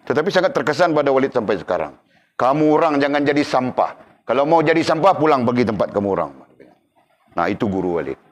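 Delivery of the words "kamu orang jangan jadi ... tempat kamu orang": a hint of a sharp-tongued teacher scolding, a bit higher; harsh scolding teacher. Preacher quoting his old teacher's rebuke, mildly harsh. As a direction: scold the class like a stern teacher. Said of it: "Mulutnya sangat berbisa".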